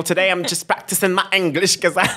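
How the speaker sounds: mock British accent, laughing. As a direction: fake a British accent playfully. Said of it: "you need more practice 'cause that was shitty". (accent british exagéré)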